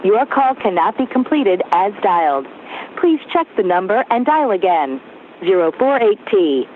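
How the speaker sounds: payphone call. Real, not acted. Automated payphone recording.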